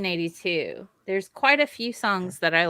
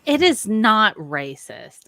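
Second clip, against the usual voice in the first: louder, slow protest; indignant; 3 semitones higher, 6 dB louder, slower than usual. Real, not acted. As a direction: push back, offended. Protesting the joke.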